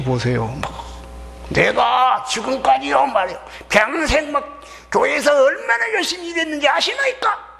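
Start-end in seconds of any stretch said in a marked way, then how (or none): 1.5-7.5 high shouted complaint, climbing to the end; defiant protest. Acted. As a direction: challenge Father as the wronged elder son. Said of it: "대적하는 거예요". (아버지께 대들며 점점 높게 외치는 소리)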